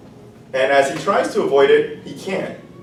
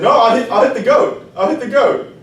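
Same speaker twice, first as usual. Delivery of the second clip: much higher, louder; eager stick; 10 semitones higher, 5 dB louder than usual. Acted. The stick promising the rooster, much higher and eager. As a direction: hurry to agree.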